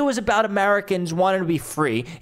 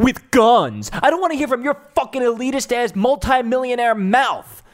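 loud, higher, swearing outburst at the clip; furious rant; 5 semitones higher, 3 dB louder than usual. Real, not acted. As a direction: tear into him, raging. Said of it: "I'm going off a little too much".

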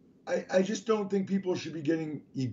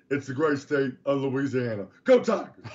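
a hint of the coach's raspy voice, ending in a loud cheer; lightly voiced coach rallying the state, shouting at the end; Ed Orgeron impression; 3 dB louder than usual. Host asked for his Ed O, a light raspy coach imitation. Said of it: "I did my voice like this today".

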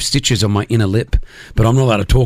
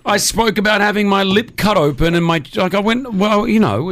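moaning voice; 6 semitones higher than usual. Real, not acted. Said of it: "Your voice changes a bit when you moan".

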